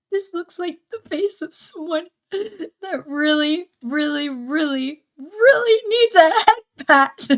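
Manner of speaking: high, slow whimpering plea, rising to a wail; mock crying. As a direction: play up fake tears for a head pat. Crying emote, mock tearful plea.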